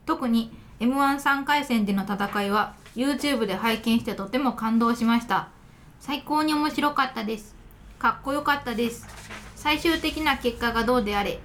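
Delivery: letter read in standard Japanese intonation. Real, not acted. Radio host reading a listener's letter, in standard Japanese. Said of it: "標準語で喋ってたけど".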